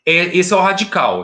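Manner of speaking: ordinary talk, nothing marked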